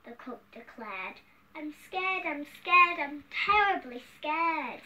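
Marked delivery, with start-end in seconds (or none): 1.5-4.8 raised, emphatic fearful refrain; storybook fright. Acted. Wimpy cook declares his fear to the king, frightened.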